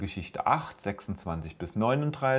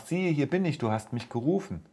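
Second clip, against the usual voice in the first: put-on higher, eager boy's voice; young Samuel; 5 semitones higher than usual. Samuel answering the call he hears, higher eager boy voice. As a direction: answer brightly like a willing boy. Samuel runs to Eli again.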